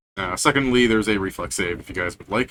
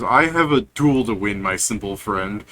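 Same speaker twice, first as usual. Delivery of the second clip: a mild menacing orc sneer; 4 dB louder than usual. Acted. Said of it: "He goes".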